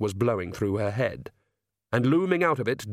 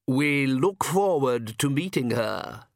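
calm; 2 semitones higher, slower than usual. Acted. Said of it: "said the Count calmly".

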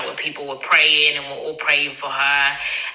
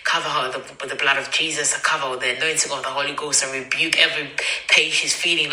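quick, rattled-off prayer; rapid earnest prayer; praying. Retold or imitated. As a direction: pray fast and urgently, like a rush of words. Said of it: "this is me praying now in my head".

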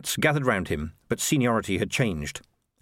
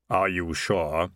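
Death's hollow voice; 4 semitones lower, slower than usual. Acted. Death speaks, slow and distant.

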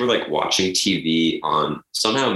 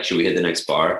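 vocal fry. Shown as a demonstration. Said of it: "So I'm gonna say it like".

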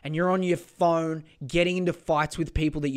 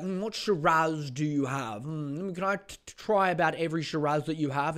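mock wine snob. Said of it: "they'd just be like".

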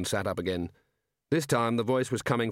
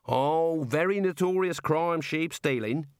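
higher, cheery Australian warder; lightly cheerful Aussie jailer; 7 semitones higher, slower than usual. A narrator's reading. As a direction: chipper and impressed. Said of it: "said the warder cheerfully".

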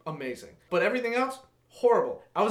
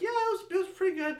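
mock agreeable; 11 semitones higher, 4 dB quieter, much faster than usual. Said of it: "going with the flow".

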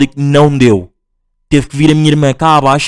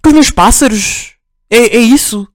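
high mocking questions; sarcastic; 8 semitones higher, slower than usual. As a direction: needle him with high sarcasm. (sarcasmo agudo)

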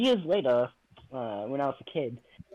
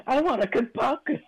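put-on higher, louder, pleading kid; eager child voice; 8 semitones higher, 6 dB louder than usual. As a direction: beg like a small child.

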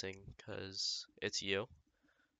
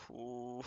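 sigh; 4 semitones higher than usual. Real, not acted. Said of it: "It sounded like I just moaned".

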